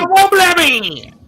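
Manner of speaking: parroting them in a hammed-up taunt; mocking imitation. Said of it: "That's how these guys talk".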